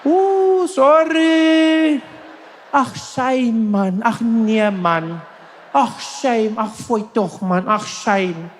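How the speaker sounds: high, fussing "ach shame" sympathy; sympathetic South African bystanders. Retold or imitated. A South African crowd fussing over someone who fell, mock sympathy. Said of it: "They'll all be there like".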